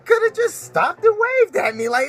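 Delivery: excited exaggeration. Real, not acted. Exaggerating rat size.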